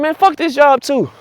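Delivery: high, slow, fed-up groan of a line. Retold or imitated. Quitting worker to himself, slow high exasperated groan. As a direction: drag it out like you're done. Giving up on the job.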